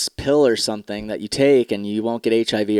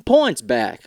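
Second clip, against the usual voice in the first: mock Samuel L. Jackson; 4 semitones higher, 4 dB louder, slower than usual. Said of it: "Samuel L. Jackson go".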